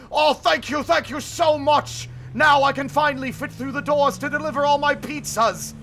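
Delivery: high, loud overjoyed thanks; hammed-up monster joy; grateful monster. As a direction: gush thanks like a giant.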